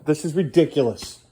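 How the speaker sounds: late-night frustrated dad voice; exasperated lecture. Real, not acted. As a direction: lecture him, worn out and irritated. Dad scolds son at 1 am.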